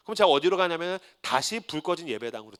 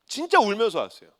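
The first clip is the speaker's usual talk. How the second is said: usual speaking voice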